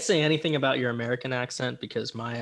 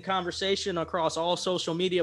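higher, punched outro read; podcast sign-off; 5 semitones higher, 3 dB louder than usual. Real, not acted. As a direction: sign off the show with energy. Podcast host signing off.

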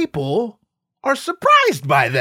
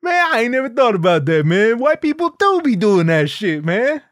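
much higher, louder awed audience voice; laughing audience member; 8 semitones higher, 4 dB louder than usual. Retold or imitated. Audience member gushing to Paul, much higher and louder. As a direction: hype fan blown away by the joke.

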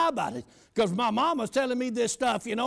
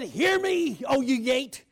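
commanding decree; slower than usual. Retold or imitated. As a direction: order the gate like a preacher. Commanding the prison gate aloud.

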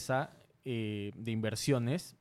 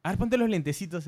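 imitating the director friend; 6 semitones higher than usual. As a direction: boss him around like a cheeky director, pitched up. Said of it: "me dice". (imitando al amigo que da órdenes, más agudo y fuerte)

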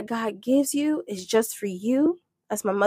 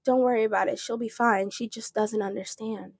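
retold calm reassurance; 8 dB quieter than usual. Retold dad reassuring onlookers.

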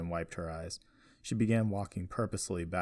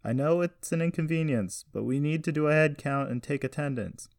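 high, loud public announcement; calling out; 8 semitones higher, 6 dB louder than usual. A narrator's reading. Carson announcing a head count to the crowd, calling out. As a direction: project it to a whole crowd.

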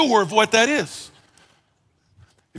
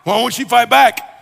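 louder mock yell of a frustrated spouse; imitating a screamer; 4 semitones higher, 5 dB louder than usual. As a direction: play the hot-headed spouse, half-shouting. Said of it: "the screamer's like".

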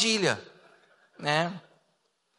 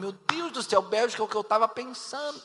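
higher-pitched, dismayed inner cry; mock panic; 5 semitones higher than usual. Player whose chosen country was just taken, mock panic. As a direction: play a rising inner panic for comedy.

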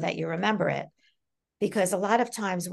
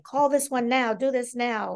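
bossy; 4 semitones higher than usual. Retold or imitated. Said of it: "a little bit bossy".

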